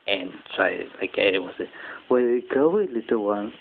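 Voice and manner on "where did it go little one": a playful man's voice, lightly done; a hint of a gruff man. Shown as a demonstration. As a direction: call out to the little one in a light man's voice. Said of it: "My voice, I like this one, like a man".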